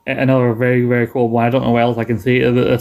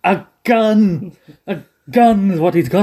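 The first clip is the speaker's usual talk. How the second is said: higher, near-crying mock panic as Frasier; Frasier about to cry; 7 semitones higher, slower than usual. Friend quoting Frasier's teary gun panic, near-crying and high. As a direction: whimper it out like a man about to cry. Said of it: "he's gonna cry".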